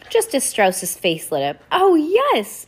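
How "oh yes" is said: high, bright burst of delight. A narrator's reading. Judge gushing about her stage dream. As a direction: gush with joy.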